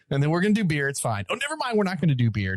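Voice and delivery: casual promise, then a high-pitched "never mind"; comic reversal with a pitch leap; mock flip-flop. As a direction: imitate an airy, abrupt backtrack. Mocks organisers reversing on beer.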